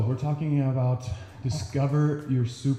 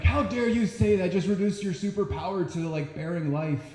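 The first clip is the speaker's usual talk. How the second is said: mock outraged critic; 5 semitones higher than usual. Mocking the liberal media's outrage.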